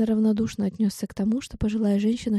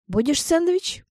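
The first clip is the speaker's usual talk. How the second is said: put-on Irish old woman; 8 semitones higher, slower than usual. A narrator's reading. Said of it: "её сильный ирландский акцент".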